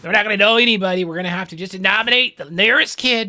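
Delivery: fast, high, loud Trump riff; hammed-up Trump, racing ahead; mock Trump. Streamer riffing on Trump clip, fast loud impression.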